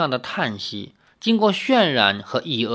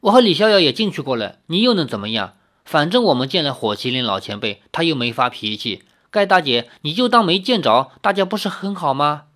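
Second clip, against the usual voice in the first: defiant; faster than usual. Acted. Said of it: "只好转为强硬的态度".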